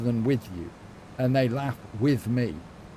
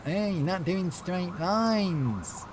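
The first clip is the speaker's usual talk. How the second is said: mock Australian accent; 5 semitones higher, 3 dB quieter, much slower than usual. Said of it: "But in an Australian accent".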